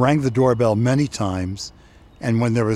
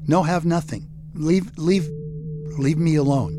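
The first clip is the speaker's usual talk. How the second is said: put-on higher, pleading child's voice; frightened kid begging for mercy; scared little boy pleading; 5 semitones higher than usual. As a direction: beg the bully to leave you alone. Bullied boy pleads with bully.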